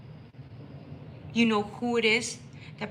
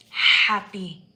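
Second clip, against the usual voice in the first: joyful shout; 9 dB louder than usual. Real, not acted. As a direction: shout "Happy." out loud with a falling end. Repeats happy much louder.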